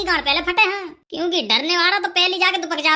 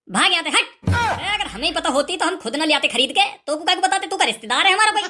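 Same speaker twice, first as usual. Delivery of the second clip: shooing him off; 3 semitones higher, 3 dB louder than usual. Acted. Shooing beggar away angrily.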